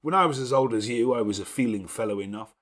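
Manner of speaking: a lordly host giving orders at ease; gruff master of the house. Acted. Rochester speaks of his past.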